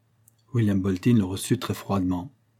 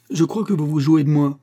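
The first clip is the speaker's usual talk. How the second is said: exasperated; 7 semitones higher, 6 dB louder than usual. A narrator's reading. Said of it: "achevait d'exaspérer Bolton".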